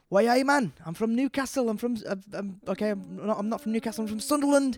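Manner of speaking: put-on high, loud hammy Sunderland accent. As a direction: ham up a north-east Sunderland accent. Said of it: "Can I have a Sunderland accent".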